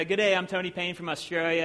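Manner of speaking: mock Australian self-introduction; Tony Payne's Australian accent. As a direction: say it with a hint of an Aussie accent. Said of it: "Tony with his good Australian accent".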